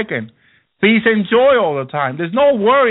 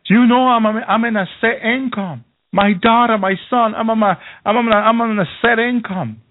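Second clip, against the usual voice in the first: mother-in-law voiced; 3 semitones higher than usual. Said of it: "She's like, she".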